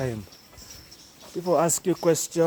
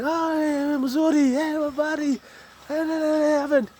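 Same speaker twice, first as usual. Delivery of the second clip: much higher, gushing mock greetings; excited greeting; 11 semitones higher than usual. Greeting the Asian shopkeeper in Swahili, high and gleeful. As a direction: toss the hellos up high, delighted to connect. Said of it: "Then you start talking".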